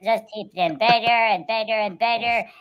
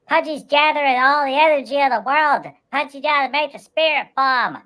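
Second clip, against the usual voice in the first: Pudgy voice; 8 semitones higher than usual. Pretend. Pudgy tells the prime minister his plan, high and earnest. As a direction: play Pudgy, earnest about his spirit bomb.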